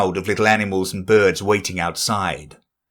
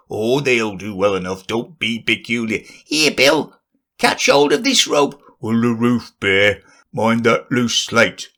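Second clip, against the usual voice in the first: lightly voiced animal giving orders; bossy animal. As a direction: direct the work, a little fussy. Rabbit giving orders on roof.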